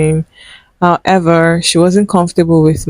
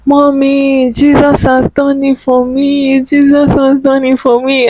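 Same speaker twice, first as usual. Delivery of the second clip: tearful thanks; 8 semitones higher than usual. Retold or imitated. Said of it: "I started crying".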